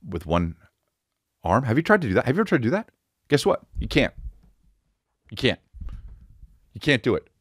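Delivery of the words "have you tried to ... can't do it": high, rising challenge to the crowd; incredulous. Real, not acted. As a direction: pitch it up, daring them to try.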